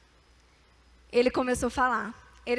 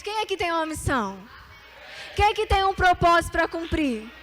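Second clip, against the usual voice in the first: loud, higher rallying question; shouted challenge; 4 semitones higher, 5 dB louder than usual. Real, not acted. Preacher shouts a challenge to the congregation, loud. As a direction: fire up the room with it.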